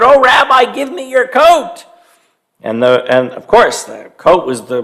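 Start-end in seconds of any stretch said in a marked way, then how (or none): 0.0-1.9 lightly voiced old lady. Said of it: "and said".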